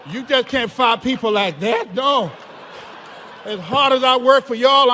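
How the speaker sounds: defiant rant. Retold or imitated. Retelling his defiant barricade rant.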